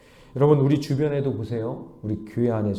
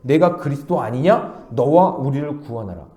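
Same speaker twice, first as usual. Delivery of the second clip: firm challenge, slightly louder; blunt, disrespectful speech; 4 dB louder than usual. Retold or imitated. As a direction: imitate a curt demand in casual speech. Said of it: "반말로 이렇게 얘기하고".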